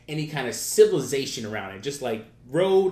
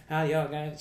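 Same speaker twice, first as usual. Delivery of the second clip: raspy voice; 3 semitones higher, slower than usual. Retold or imitated. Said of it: "weird raspy voice".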